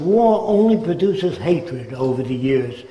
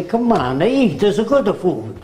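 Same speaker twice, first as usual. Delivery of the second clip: higher, sing-song Italian host voice; Italian accent; 4 semitones higher than usual. Retold or imitated. Lecturer imitates an Italian urging food in an Italian accent. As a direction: coax someone to eat in an Italian accent. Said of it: "If you're brought up in Italy, you say".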